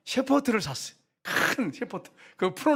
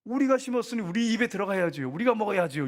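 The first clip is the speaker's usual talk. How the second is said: stubborn insisting; 5 semitones higher than usual. Retold or imitated. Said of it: "고집 피우는 거예요".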